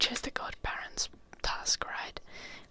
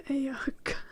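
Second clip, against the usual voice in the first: voiced aloud; 7 dB louder than usual. Real, not acted. Voiced Finnish phrase after laughing.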